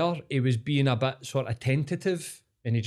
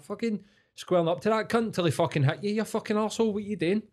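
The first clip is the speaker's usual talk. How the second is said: retold scolding; 9 semitones higher than usual. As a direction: tell off a fool, pitch jumping right up. Retelling scolding the drunk man.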